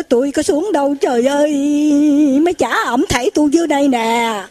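lightly acted dismayed cry; mock alarmed protest. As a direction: retell a frightened man's protest. Frightened monk protests being thrown down.

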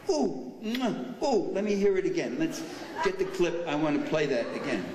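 high, giddy mock delight with a kiss sound; smug glee, starting high on the ooh; gleeful mockery. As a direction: ham up a gloating fan replaying his favorite line. Mocks officials gloating over quote.

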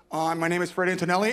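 announcing himself to a room; mock support-group introduction. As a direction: introduce yourself like at a meeting.

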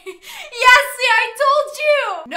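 high loud singsong told you; triumphant laughing chant; gleeful sing-song. Real, not acted. Triumphant at mom.

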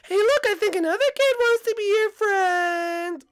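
high, slow praising mother voice; proud mom. Acted. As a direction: praise your son warmly, slowly. Mom points out new kid.

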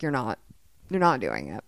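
low, understated retold verdict; dismissive. Playwright judging actors who claim an accent, dismissive.

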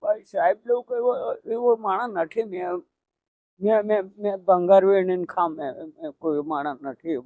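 quiet, broken words while really crying. Real, not acted. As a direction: says it softly, struggling through tears. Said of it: "દાદા રડોમાં".

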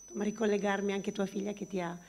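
normal talking voice

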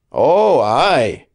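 harsh. A narrator's reading. Asa brushing off Joel's point, harsh. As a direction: grate it out, irritated. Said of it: "he said harshly".

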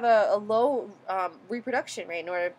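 stumbling stutter on the words; halting, stuttered restart mid-word. Real, not acted. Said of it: "I apologize for my stuttering there".

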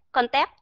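"Con tép" with the p unreleased; "Con tép" stopped short on closed lips; closed-lip final p. Shown as a demonstration. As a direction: shut the lips to end "Con tép", no puff. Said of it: "Hà Cát đang đóng miệng".

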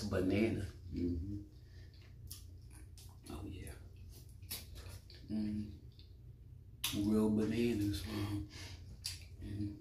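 chewing while talking; humming through a mouthful; mouth full of ice cream. Real, not acted. Seen 1: holds ice cream tub and spoon, chewing with lips closed while speaking.

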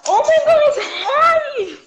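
high, shaky fan squeal of excitement; starstruck, voice trembling with nerves; nervous excitement. Real, not acted. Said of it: "Oh my God, I'm shaking. I'm so nervous".

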